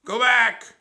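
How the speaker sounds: very high, loud screech; piercing talking-parrot voice; parrot squawk. A narrator's reading. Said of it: "she squawked".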